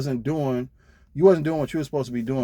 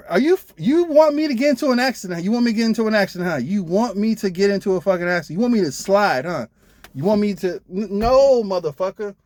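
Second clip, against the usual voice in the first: high, loud, furious rant; fast at first, hammering him with questions; angry yelling; 7 semitones higher, 5 dB louder than usual. Retold or imitated. To the trainer asking him to speed downhill, furious yelling. Retold shouting at reckless trainer.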